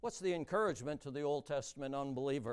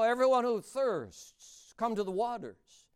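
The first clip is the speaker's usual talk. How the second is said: proclaimed reading; 4 semitones higher, 6 dB louder than usual. Shown as a demonstration. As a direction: call it out like a preacher. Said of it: "Start out there".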